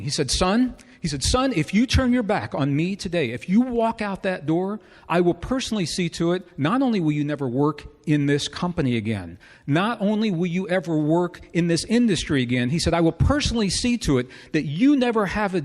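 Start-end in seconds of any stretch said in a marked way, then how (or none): 0.3-0.7 a hint of a condescending boss, slightly raised; talking down to him as "son". Boss talks down to the young employee, mildly condescending. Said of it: "very condescending". 1.2-12.7 mildly raised, imitating an angry boss; angry threat. Boss threatens the quitting employee, imitated anger. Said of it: "Now he's really, really upset".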